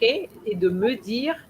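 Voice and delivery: de me dire quelle était run together without a break; flowing in one breath. Shown as a demonstration. Teacher showing the student a smooth phrase, flowing. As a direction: say it all in one flow. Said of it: "all this needs to flow in one".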